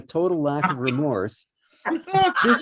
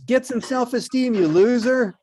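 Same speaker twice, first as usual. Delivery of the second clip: sassy put-down; 7 semitones higher than usual. Acted. Beauty snapping at the beast.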